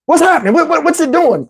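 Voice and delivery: high, stammering mock panic; alarmed questioning. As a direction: ask it like a nervous patient. Retold alarm at doctor's grunting.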